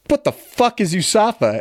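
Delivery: mock drill sergeant yell. Drill instructor confused, yelling.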